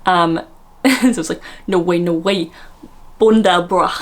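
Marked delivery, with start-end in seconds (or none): 1.7-3.9 mock London roadman. Host imitating a posh contestant's roadman, mock roadman accent. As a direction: put on roadman slang accent. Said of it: "does a roadman accent".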